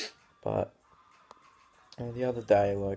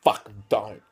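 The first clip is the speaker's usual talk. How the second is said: sarcastic mock fear; 3 dB louder than usual. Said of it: "I'm like".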